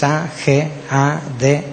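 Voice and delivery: letter by letter, evenly spaced; spelled aloud, each letter separate; spelling out. Shown as a demonstration. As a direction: spell the word out for listeners. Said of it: "se las voy a deletrear también".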